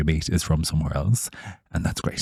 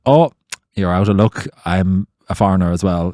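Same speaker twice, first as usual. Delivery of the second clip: smart comeback; 2 semitones higher, 6 dB louder than usual. Retold or imitated. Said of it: "I said".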